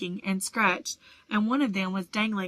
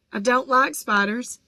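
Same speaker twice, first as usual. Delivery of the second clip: tense; 4 semitones higher, 5 dB louder than usual. A narrator's reading. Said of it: "said Ron tensely".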